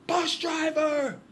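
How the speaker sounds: slow, high, loud showman call; drawn-out shout. Retold or imitated. Host with a megaphone hailing the bus driver, slow high shout. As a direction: stretch it out like a TV host. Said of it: "and goes".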